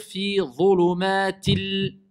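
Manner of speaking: slow chant of dhulumatil, holding the L; measured tajwid recitation; Quran recitation. Shown as a demonstration. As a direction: sustain each long syllable of Fi dhulumatil. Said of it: "Donc, on va dire".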